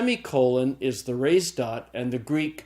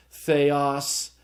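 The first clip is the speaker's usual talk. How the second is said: theos slowly, stress on final OS; stress on accented syllable. Shown as a demonstration. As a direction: say "theos" as the-OS, deliberately. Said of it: "The grave is the accent that goes down".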